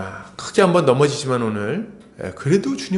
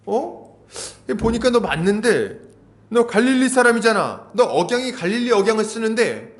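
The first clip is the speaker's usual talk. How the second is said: higher-pitched, mock questioning accusation; suspicious bystanders; 6 semitones higher than usual. Bystanders challenge Peter about Galilee, acted suspicious remarks. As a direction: pick him out as if just recognising him. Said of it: "주변에 있는 사람들도 말하기 시작했어요".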